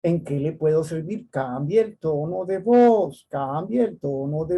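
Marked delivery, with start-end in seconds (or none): 0.0-1.3 mild polite doorman voice; polite greeting. Retold or imitated. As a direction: greet the visitor kindly, lightly acted.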